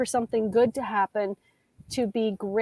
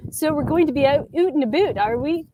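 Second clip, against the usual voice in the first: imitating Canadian accent; 5 semitones higher, 3 dB louder than usual. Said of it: "I was pronounced".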